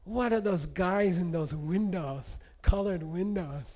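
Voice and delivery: slow, mildly awed delight, retelling; happy wonder. Retold or imitated. Lama marvels at the church windows, mock happy wonder. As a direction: act out drawn-out happy amazement. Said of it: "so happy".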